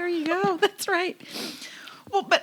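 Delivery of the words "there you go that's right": a breathy whispered aside. Real, not acted. Host whispering "that's right" as an aside. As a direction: whisper it under your breath.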